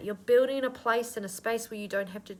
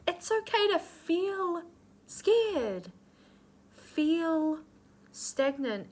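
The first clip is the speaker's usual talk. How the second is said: tearful, high; 8 semitones higher, slower than usual. Real, not acted. Reader moved to tears comforting the viewer, tearful. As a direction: still near tears, voice pitched high.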